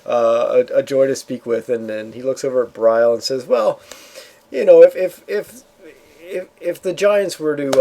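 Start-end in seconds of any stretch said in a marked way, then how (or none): 0.0-1.7 dragon chuckling, amused and friendly; laughing. Acted. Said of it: "Vex starts laughing and says". 3.5-7.8 veiled threat. Acted. Dragon hints a veiled threat.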